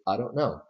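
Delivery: I don't know with don't light and know carrying the stress; quick unstressed don't, land on know. Shown as a demonstration. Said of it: "You just stress, uh, no more strongly".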